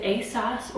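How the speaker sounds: "asos" with a short, open o, like ay-soss; British-style asos. Shown as a demonstration. Asking viewers how to say a brand name, "asos" as ay-soss. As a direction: say "asos" to end like "sauce". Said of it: "they say asos".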